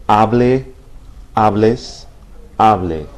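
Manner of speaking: Hable, hables, hable with the weight on HA, endings light; Hable, hables, hable stressed HA-ble, HA-bles, HA-ble; stress on second to last syllable. Shown as a demonstration. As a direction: lean on HA in Hable, hables, hable, never the end. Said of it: "not to emphasize the final syllable".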